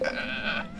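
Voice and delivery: low-volume groan of giving up; soft exasperated grunt; frustrated ugh. Acted. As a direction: let out a quiet, defeated "ugh". Gives up on the German accent.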